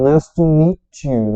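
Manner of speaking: loud 'nice to meet you', meet you run into 'mee-chu'; slow, forceful 'meet you' joined with a ch sound; linked MEET YOU. Shown as a demonstration. Teacher showing the phrase to learners, linked MEET YOU. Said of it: "Veja que eu botei nessa expressão".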